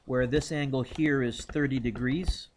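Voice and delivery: chewing while talking; mouth full. Real, not acted. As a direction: talk through a mouthful. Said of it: "Sorry, I'm chewing".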